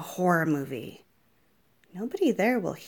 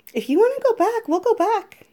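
laughing; 12 semitones higher, 5 dB louder than usual. Acted. Teasing, laughing through it.

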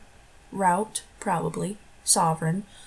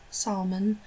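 salmon said as sahl-mon in a put-on British accent, open ah with the l sounded; an amateur British salmon; salmon with a British ah and an audible l; mock British accent. Shown as a demonstration. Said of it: "try the word list in other accents".

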